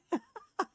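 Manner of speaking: short, bright burst of laughter; real laugh. Real, not acted. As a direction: laugh out at the story.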